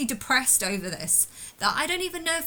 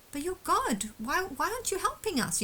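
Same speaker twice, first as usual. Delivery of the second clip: high, thin mocking imitation of demanding people; mocking whiny voice; 8 semitones higher, 4 dB quieter than usual. Mimicking people who beg him for help, high mocking whine. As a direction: mimic them whining for help.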